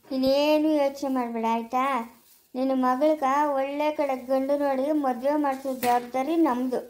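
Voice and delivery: low, steady comfort; calm a worried mother firmly and kindly; reassuring. Acted.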